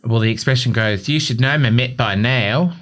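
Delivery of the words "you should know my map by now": light New Zealand accent; Kiwi accent. Shown as a demonstration. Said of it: "I said it with a Kiwi accent".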